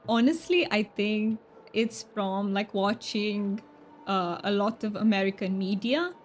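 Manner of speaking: strong Romanian accent, close to stereotypical Russian; hammed-up Romanian accent for fun; Romanian accent attempt. Shown as a demonstration. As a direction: speak English with an exaggerated Romanian roll on the R's. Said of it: "that sounds very Russian".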